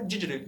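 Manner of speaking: "digitally" squashed into a quick didgerly; imitated rapid pronunciation. Learner imitating a very fast line from the show, rapid pronunciation. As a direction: rattle off "digitally" as one blurred word. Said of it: "Era uma frase extremamente rápida".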